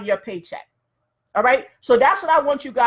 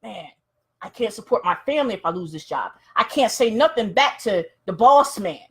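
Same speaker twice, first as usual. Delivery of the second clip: worried inner thoughts; 4 semitones lower than usual. Acted. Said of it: "but George is thinking".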